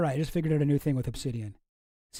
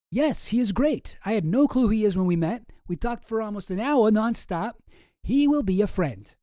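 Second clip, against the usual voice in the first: put-on higher, louder character read without the Russian accent; Jeffrey Epstein; 5 semitones higher, 4 dB louder than usual. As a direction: pitch it up as another correspondent. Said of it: "do it again with the right accent".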